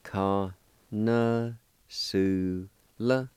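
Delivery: Kana and Sula said as separate parts; syllables apart. Shown as a demonstration. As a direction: break Kana Sula into two clear parts. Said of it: "And it's pronounced like this".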